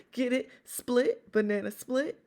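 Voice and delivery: high loud eager explaining; gleeful explaining. Acted. Uncle explaining his banana joke to Sassy, high and loud. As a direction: push the pun home, delighted.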